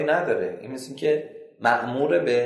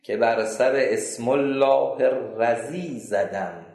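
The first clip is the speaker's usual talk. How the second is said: slow, loud mournful telling of his torment; lament; 3 dB louder than usual. Retold or imitated. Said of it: "گفت".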